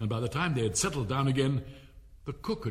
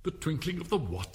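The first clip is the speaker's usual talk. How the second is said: puzzled king; 5 semitones higher than usual. Acted. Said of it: "said the king".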